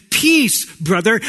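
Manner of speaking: big bright-pitched hail to a brother; lively greeting. Acted. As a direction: toss out a loud, high greeting. First take of a greeting, then corrected.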